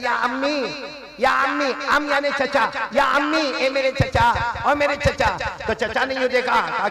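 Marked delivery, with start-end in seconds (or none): 0.0-5.3 lovingly. Retold or imitated. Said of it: "कितने प्यार से कहता है".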